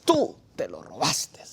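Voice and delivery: slow, breathy accusing whisper. Retold or imitated. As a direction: hiss the accusation slowly, eye to eye. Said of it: "me dice así, viendo a los ojos".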